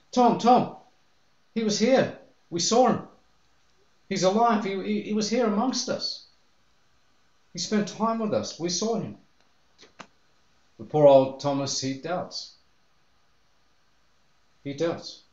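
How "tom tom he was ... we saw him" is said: much higher, eager and breathless; excited telling. Retold or imitated. Disciples rush to convince doubting Thomas, high and excited. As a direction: gush out the news to a friend.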